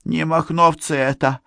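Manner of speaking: high, hesitant character voice; high-pitched uncertain suggestion; unsure beekeeper. A narrator's reading. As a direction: offer a timid guess, dragging the words. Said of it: "неуверенно пробормотал пасечник".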